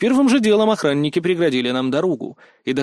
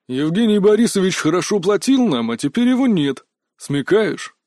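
put-on tough guard voice, hostile; angry guard. A narrator's reading. Guard telling Kotov to clear off after hurting their reputation, angry. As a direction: warn off an intruder with real irritation. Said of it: "собеседник был реально зол".

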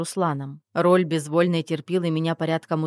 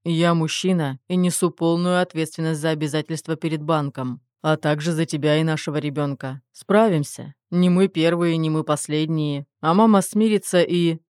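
stern; 4 dB louder than usual. Acted. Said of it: "строго добавил".

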